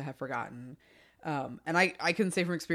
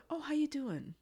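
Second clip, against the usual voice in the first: high, chirpy greeting; bright sing-song office greeting; cheery coworker voice; 10 semitones higher, 4 dB quieter than usual. Retold or imitated. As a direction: sing out a friendly hello. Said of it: "and he's like".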